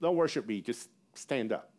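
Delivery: imitating a casual brush-off, dropping low and soft; offhand angel. Angel to people bowing down, casually dismissive. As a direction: toss it off modestly. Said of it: "and the angel's like".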